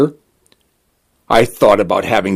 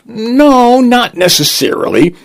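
softened; 13 semitones higher, 4 dB louder than usual. A narrator's reading. Lawyer comforts the crying client, softened. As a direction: reassure in a raised, coaxing pitch. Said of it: "The lawyer softened".

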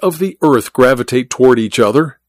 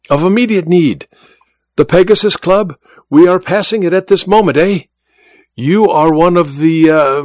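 quick, higher, impatient French showman with a chuckle; impatient magician; 5 semitones higher than usual. A narrator's reading. Magician hurrying his friend in the cab, impatient. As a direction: press him hurriedly, then laugh slyly.

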